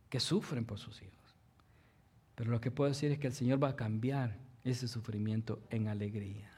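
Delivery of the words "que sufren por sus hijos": hushed whisper, very soft; soft whispered sympathy. Real, not acted. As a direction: drop to a tender whisper. Preacher drops to whisper.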